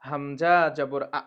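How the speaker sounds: হামজা জবর আ spelled out slowly, stressing আ; slow spelling drill; drilled syllable. Shown as a demonstration. Teacher spells হামজা জবর আ slowly for students. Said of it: "পড়ার সময় আমরা বলবো".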